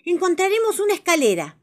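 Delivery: high, loud cartoon voice soothing; Bibi comforting. Bibi calming the frightened bear, high voice. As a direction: reassure the scared bear in a high voice.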